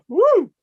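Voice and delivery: high, loud celebratory woo; whooping goodbye to the hosts; excited woo. Real, not acted. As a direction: let out a big happy whoop. Cheering at leaving the game.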